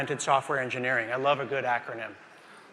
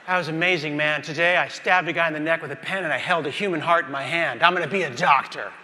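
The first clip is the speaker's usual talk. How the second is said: elated rookie. Acted. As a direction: brag about the best day ever. Rookie raves after first day.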